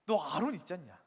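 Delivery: loud sharp "hey", then mild scolding; mildly cross reproach after a loud opening call; acted anger. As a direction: play an exasperated God telling someone off. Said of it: "하나님께서 이제 화를 내시는 거죠".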